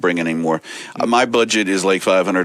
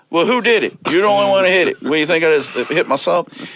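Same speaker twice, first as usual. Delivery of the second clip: high, raised-voice disbelief; incredulous comeback; 11 semitones higher, 3 dB louder than usual. Retold or imitated. Accusing the wrestler who broke his rib, high indignant disbelief. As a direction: jump way up, indignant and louder.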